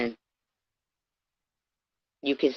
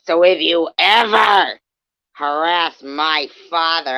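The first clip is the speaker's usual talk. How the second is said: louder, half-hearted imitation of her screaming; mock retold yell; 4 dB louder than usual. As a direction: throw her threat back as a mild mock yell. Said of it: "screaming at me if I ever harassed your deceased father".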